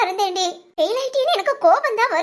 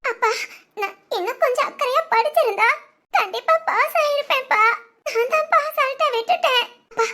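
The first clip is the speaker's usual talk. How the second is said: higher, tearful regret; crying daughter; 4 semitones higher than usual. Acted. Daughter to her father after failing the exam, crying. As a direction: sob out the apology. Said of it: "ஏய், அழாத".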